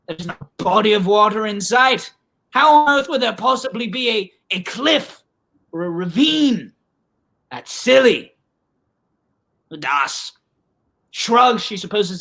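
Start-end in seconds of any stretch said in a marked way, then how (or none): 0.1-8.3 incredulous scoffing. Acted. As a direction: scoff at a ridiculous idea, easing off. Acted scoffing reply in a story.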